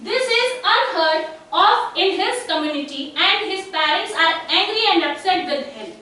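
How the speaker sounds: slow, measured classroom reading; case-study read-aloud. Acted. Teacher reading a case to the class, slow read-aloud. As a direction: read it out slowly and carefully.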